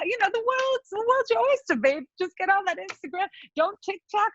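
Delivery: high sassy put-on voice. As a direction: camp it up, playful and high. Playful sassy plug.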